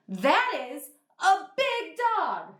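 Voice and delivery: shocked and surprised. Shown as a demonstration. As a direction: sound amazed by the big dog. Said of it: "like you're super surprised or shocked".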